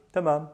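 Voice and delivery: تمام with a light plain T; soft T tamam. Shown as a demonstration. Teacher modelling تمام with a soft T. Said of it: "is a T sound".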